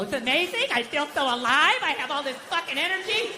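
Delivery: rising mock enthusiasm; fake-chipper sober person, lightly done; mocked happy sober people. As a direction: gush in mockery, climbing in pitch. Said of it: "Fucking hate these happy, sober people".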